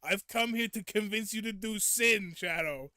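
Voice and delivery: loud, high devil meme voice; comic devil. Retold or imitated. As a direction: announce it grandly as a silly devil. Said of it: "the voice for it is so funny".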